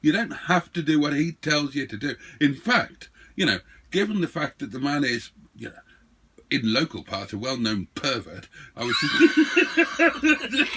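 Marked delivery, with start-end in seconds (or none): 0.0-8.5 loud, higher playful scolding; mock stern teasing. Real, not acted. Teasing the other player. 9.0-10.8 high, drawn-out laughing break. Real, not acted.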